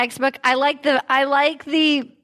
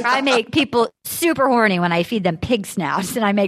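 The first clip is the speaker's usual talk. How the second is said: low, deadpan business pitch; mock investor pitch; 7 semitones lower than usual. Host pretending to pitch to investors on a show, mock-serious low voice. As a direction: sell it earnestly in a lowered voice.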